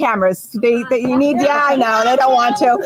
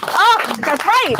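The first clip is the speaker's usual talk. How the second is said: excited; 8 semitones higher, much slower than usual. Real, not acted. Celebrating, surprised interruption.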